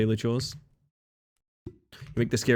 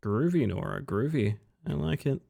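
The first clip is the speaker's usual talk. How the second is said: tired voice; 4 semitones higher, 3 dB quieter than usual. Real, not acted. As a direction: sound worn out and tired. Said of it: "Sorry for the tired voice".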